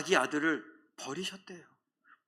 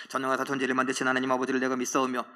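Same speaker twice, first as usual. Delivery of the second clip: rattled off fast, by memory; rote recitation; 5 semitones lower, faster than usual. Shown as a demonstration. Preacher mocking rote creed recitation, fast and rushed. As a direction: gabble the creed like a memorized list. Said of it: "사도신경 외운다 그러는 게 아니에요".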